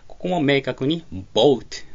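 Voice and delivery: boatをゆっくり、母音を二重母音オウで; boatのoaをオーでなくオウと発音; boatの発音実演. Shown as a demonstration. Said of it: "というふうに発音するように気をつけてください". (boatはオウの二重母音ではっきりと)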